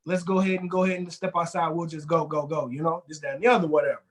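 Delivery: low, steady guard sending him out; calm guard. Retold or imitated. Guard telling an angry man to leave, low and steady. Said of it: "I say".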